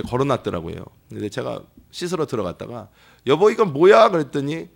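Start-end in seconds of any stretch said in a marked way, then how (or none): 3.3-4.1 raised, puzzled call to his wife; husband calling to his wife from the bathroom, puzzled; surprised husband's question. Retold or imitated. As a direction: ask what this thing is, startled.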